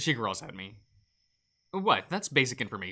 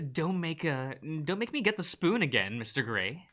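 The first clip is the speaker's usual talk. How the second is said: scolding cook; 5 semitones higher than usual. Acted. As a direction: threaten with the spoon. Cook threatens Gray.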